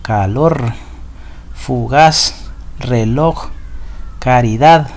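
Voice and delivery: Calor, fugaz, reloj, caridad with the final syllable strongest; final-syllable stress. Shown as a demonstration. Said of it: "la mayor fuerza de voz la hacemos en la última sílaba".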